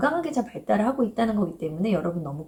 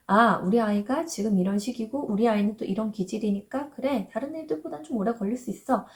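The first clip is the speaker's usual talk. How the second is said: calm acceptance. Retold or imitated. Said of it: "덤덤하게 조금은 그렇게 받아들일 수 있어요".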